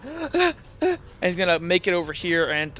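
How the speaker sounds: a quick acted gasp for breath; hammed-up breathless gasp; mock panting gasp. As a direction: gasp like the character is winded. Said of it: "he's, like, panting really hard".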